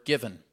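"given" set apart, firmly emphasized; stress on given. Shown as a demonstration. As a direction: land deliberately on the word "given". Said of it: "with the emphasis on that word".

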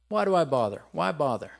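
mildly exasperated complaint; disgruntled. Acted. Preacher voicing anyone who feels insulted, disgruntled. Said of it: "disgruntled, frustrated, put out, impatient, insulted".

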